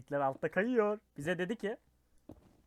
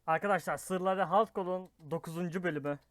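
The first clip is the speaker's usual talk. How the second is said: talking around a hard candy; words slurred by a sweet in the mouth. Real, not acted. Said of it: "ağzımda şeker var ya".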